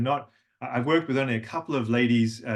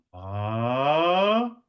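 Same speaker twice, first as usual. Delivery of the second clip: breathy to voiced ah; 3 dB louder than usual. Shown as a demonstration. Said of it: "Try it one more time".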